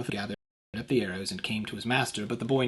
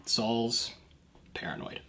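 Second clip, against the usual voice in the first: hushed aside; 4 dB quieter, slower than usual. Real, not acted. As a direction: drop to a near whisper on the word. Aside about Saul's fear.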